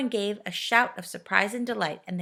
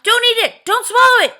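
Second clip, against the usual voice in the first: high, loud panicked yell; sudden yell; 15 dB louder than usual. A narrator's reading. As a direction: stop her before she swallows. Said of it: "yelled Moonface suddenly".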